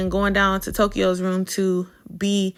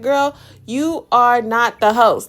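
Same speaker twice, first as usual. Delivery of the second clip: slow, loud, higher put-down; sassy retort; 4 semitones higher, 5 dB louder, slower than usual. Retold or imitated. Vlogger talking back to Lex, slow and sassy. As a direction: cut her down to size, slowly.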